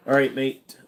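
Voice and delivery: put-on a light Aussie accent on "All right, mate"; "All right, mate" said lightly in an Australian accent. Streamer greets chat in a mild Australian accent. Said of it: "It's a very decent Aussie accent".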